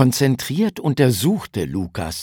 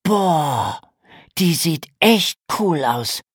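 neugierig; 7 semitones higher, 4 dB louder than usual. A narrator's reading. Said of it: "Lukas wurde sofort neugierig".

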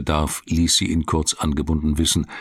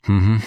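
a disgruntled closed-mouth mhm, a touch louder; discontented hum; 3 semitones higher, 5 dB louder than usual. A narrator's reading. Duval to Stefan, unhappy at losing the case: disgruntled mhm. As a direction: grumble it through closed lips. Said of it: "machte er unzufrieden".

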